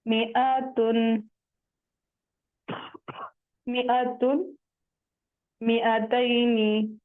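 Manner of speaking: slow मिआतुन and मिआतैनी with short "mi"; measured मिआतुन, alif after meem unsounded; silent alif. Shown as a demonstration. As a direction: recite मिआतुन, मिआतैनी, short "mi" straight into hamza. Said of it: "मीम जेर मी पढ़ेंगे".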